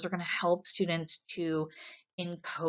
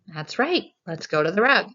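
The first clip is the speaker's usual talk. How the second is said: teacher praise; 5 dB louder than usual. Shown as a demonstration. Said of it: "you could say".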